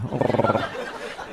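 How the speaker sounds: weak, unvoiced rasping purr; soft, rattly cat noise with no strength in it; sickly cat growl. Shown as a demonstration. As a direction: feeble growl like an ailing cat. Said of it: "like a, a cat with leukemia".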